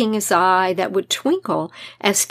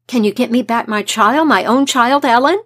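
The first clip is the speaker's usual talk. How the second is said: rising urgent plea; pleading with energy; 2 semitones higher than usual. Acted. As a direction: beg her eagerly, building. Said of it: "with great energy".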